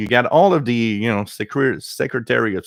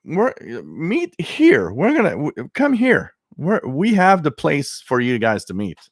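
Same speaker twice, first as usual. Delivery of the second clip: mock Russia; 7 semitones higher than usual. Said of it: "and Russia said".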